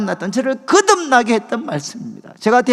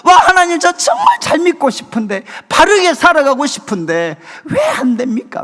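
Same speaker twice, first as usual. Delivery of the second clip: crying out; 4 semitones higher, 5 dB louder than usual. Retold or imitated. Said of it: "처음 엉엉 울었어요".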